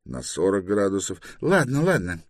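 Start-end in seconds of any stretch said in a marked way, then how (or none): 1.4-2.2 high, dismissive official voice; dismissive inspector. Acted. Inspector waves off the directions, dismissive. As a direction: cut him off in a high voice. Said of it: "махнул рукой инспектор".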